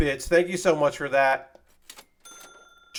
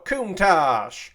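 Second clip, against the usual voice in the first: "Countach" said in a mocking Appalachian accent; lightly mocked Appalachian "Countach". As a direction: say "Countach" the Appalachian way, as the wrong version. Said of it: "definitely not how you say it".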